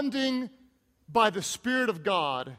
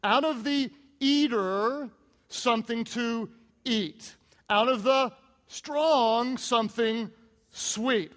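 riddle; slower than usual. Retold or imitated. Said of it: "here's the riddle".

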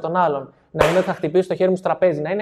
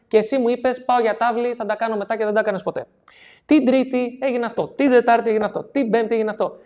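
accusing list from notebook; 5 semitones higher than usual. Retold or imitated. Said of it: "αρχίζει και του λέει".

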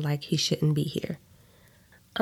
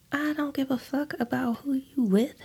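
high, breathy whisper of a scream; inner scream whispered; 9 semitones higher, 3 dB quieter than usual. Acted. Olivia raging at Sylvester in her head, whispered. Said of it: "I scream in my mind".

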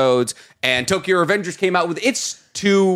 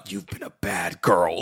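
deep, softer British-style seducer; Nanami; 11 semitones lower, 5 dB quieter than usual. Acted. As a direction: drop low into a stern, sultry voice. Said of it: "Nanami is like".

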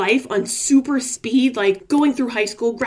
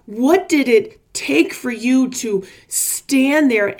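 louder, building coach intensity; coach urging; 4 dB louder than usual. Retold or imitated. Tony urging me to relive it, a building coaching push. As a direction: push me to feel it like Tony did. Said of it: "he's like".

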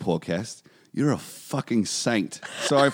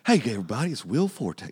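Will Forte voice. Retold or imitated. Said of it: "you sound like Zach Galifianakis".

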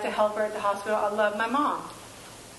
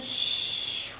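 unvoiced, hushed shh; soft shush; 5 dB quieter than usual. Shown as a demonstration. Calming her own racing thoughts with a hushed shh. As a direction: hush the noise down like calming a child.

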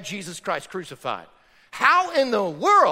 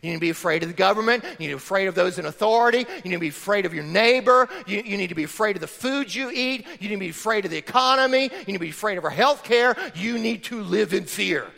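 mocking society; faster than usual. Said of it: "that's the way our society tells us".

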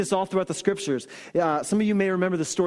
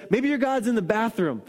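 sarcastic taunt; 5 semitones higher than usual. Retold or imitated. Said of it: "he's being super sarcastic".

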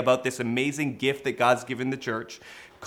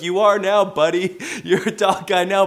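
teasing; 4 semitones higher, 6 dB louder than usual. Retold or imitated. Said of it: "he's like".

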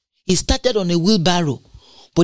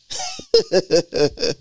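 short laugh; 6 semitones higher than usual. Real, not acted. Laughs at own joke.

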